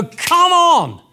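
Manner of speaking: loud, high, fired-up "Come on!"; excited cheer. Pretend. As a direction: cheer it like a thrilled crowd.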